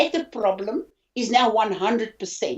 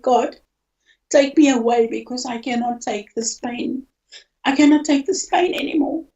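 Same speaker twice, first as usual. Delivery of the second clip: tearful; 3 semitones higher than usual. Real, not acted. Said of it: "I'm getting emotional now".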